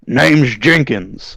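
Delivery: put-on slow, drawn-out southern accent. Officer answering the commander in a southern accent. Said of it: "Your southern accent slips".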